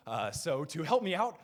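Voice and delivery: winded, short on air; out of breath. Real, not acted. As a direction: talk while catching your breath. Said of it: "I'm a little out of breath".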